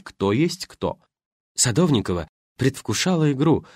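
ordinary talk, nothing marked

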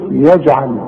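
يجعل with an echoing j before the ayn; qalqalah on ج. Shown as a demonstration. Teacher isolating the word for students, bounced يجعل. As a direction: pop the still ج in يجعل. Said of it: "شوف".

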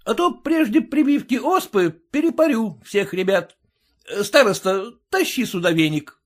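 высокая громкая угроза; пригрози, прикрикивая; грозно. A narrator's reading. Фельдшер грозит бабам. (угрожающий окрик)

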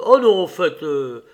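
loud start, easing off at the end; called out. Acted. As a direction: call back to cancel an order. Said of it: "cria-t-il aussitôt après".

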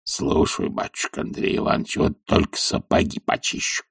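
hushed, eager servant's reply; a servant eager to please, low and quiet; willing old servant. A narrator's reading. Zakhar the servant answers his master's friend, eager and hushed. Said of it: "охотливо говорил Захар".

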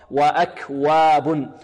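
slow وأكواب with a clear, unemphatic wa; measured correct chant of وأكواب; light waw. Shown as a demonstration. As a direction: recite وأكواب keeping وا light. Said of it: "يحذر الطالب من تفخيمها".

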